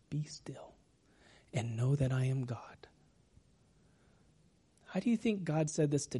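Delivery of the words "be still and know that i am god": low, very soft near-whisper; hushed and low, leaving space between phrases. Shown as a demonstration. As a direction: breathe it into the silence. Modelling stillness in a quiet room.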